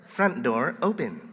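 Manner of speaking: slow, soft automated announcement; be the alarm system's voice, slowly and softly; Telus alarm lady. Retold or imitated. Pastor imitating the office alarm lady, slow robotic announcement. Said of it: "the Telus lady says".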